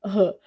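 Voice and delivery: R as a short breathy "huh"; aspirated R, not its name; strong R sound. Shown as a demonstration. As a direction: say R like an H puff. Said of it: "dois R's".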